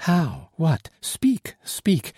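high-pitched, breathless-eager questions in short bursts; eager urging. A narrator's reading. Solange begs the narrator to speak, urgent and high. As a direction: press for news, voice leaping up.

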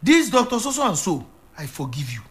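a pastor gently feeding a grieving father his line of forgiveness; coaching the words. Shown as a demonstration. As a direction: lead him through it like a prompt he can repeat. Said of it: "All you have to do is to say from your heart".

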